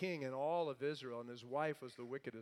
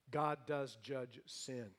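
slow emphasis; 2 semitones lower, slower than usual. Real, not acted. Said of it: "preacher slows".

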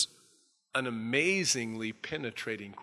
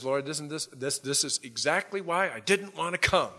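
whiny Jonah; 2 semitones higher than usual. Retold or imitated. Jonah complaining to God.

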